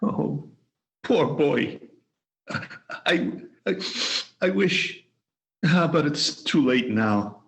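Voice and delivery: halting, tearful regret; sorrowful, faltering speech; weeping. Acted. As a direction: choke up with pity, breaking off. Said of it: "Scrooge wept to see".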